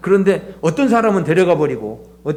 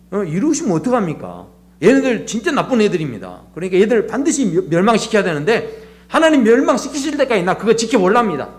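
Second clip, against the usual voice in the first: mildly indignant retold protest, building higher; stubborn complaint; 4 semitones higher than usual. Jonah complaining to God about Nineveh, stubbornly indignant. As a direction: push the grievance like a stubborn objector. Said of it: "아주 고집을 부리고".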